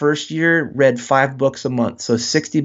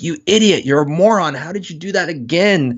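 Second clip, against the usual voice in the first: higher mock scolding of yourself; hateful inner voice; 5 semitones higher than usual. Guest voices the brain's insults at himself, mildly mock hateful. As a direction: sneer at yourself like a nagging inner critic. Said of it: "we have this very hateful voice".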